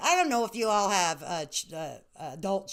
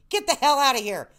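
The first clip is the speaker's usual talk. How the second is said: playful louder shout; 5 semitones higher, 5 dB louder than usual. Shown as a demonstration. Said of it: "repeated louder".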